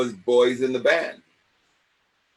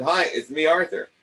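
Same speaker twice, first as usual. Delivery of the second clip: put-on eager kid on the phone; 5 semitones higher than usual. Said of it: "So that was the joke".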